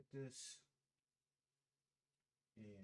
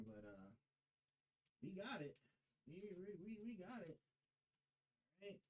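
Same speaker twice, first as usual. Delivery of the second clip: coaxing; 5 semitones higher than usual. Real, not acted. Coaxing a tight PC part in.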